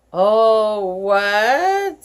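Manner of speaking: high voice. A narrator's reading. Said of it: "in a high voice".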